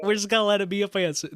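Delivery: put-on comic Southern accent, sped up. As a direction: rush it out in a hammed-up Southern accent. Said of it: "I don't know how to get out of this voice now".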